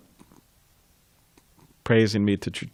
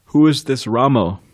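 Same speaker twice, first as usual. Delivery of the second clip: a slightly raised teasing question; Prabhupada's quip; 3 semitones higher, 4 dB louder than usual. Retold or imitated. Prabhupada teasing a disciple for mispronouncing Rama, raised. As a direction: tease the disciple over the wrong sound. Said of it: "And then Prabhupada said".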